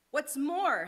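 snapped. A narrator's reading. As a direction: snap it out, dander up. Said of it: "snapped the Lorax".

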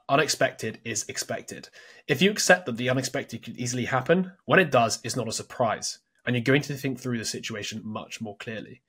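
measured reading from a book; reading aloud. Acted. Host reading book advice to co-host, measured read-aloud. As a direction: read the passage out in full sentences.

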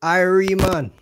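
hammed-up Jamaican accent, loud and high; mock Jamaican accent. Streamer teasing his guest in a mock Jamaican accent. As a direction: redo the mic check as a Jamaican caricature.

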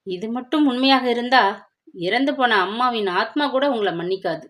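daughter accusing her father, voice rising to a shout; angry outburst. Acted. Daughter furious at her father, rising angry shout. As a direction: let the betrayal flare into a yell at its peak. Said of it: "கோபமாக மாதங்கி கத்த".

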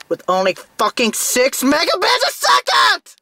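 ranting. Real, not acted. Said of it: "But I'm gonna rant".

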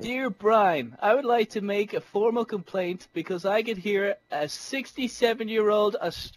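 mock complaint letter. Gamer reading a mock formal complaint from a neighbour. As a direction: read it like a stuffy complaint.

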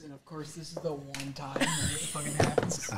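hiccuping between words; hiccups. Real, not acted. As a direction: talk through hiccups. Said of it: "I haven't had hiccups in years".

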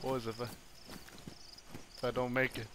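slow, hushed last words of a fallen soldier; hammed-up deathbed goodbye; mock dying farewell.

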